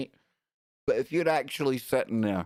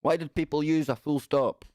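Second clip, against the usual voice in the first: mock distressed youngster; 4 semitones higher than usual. Mocking young people upset by full stops, hammed-up wail. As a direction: whine like a fretting teenager over punctuation. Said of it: "Yous are left in a state of".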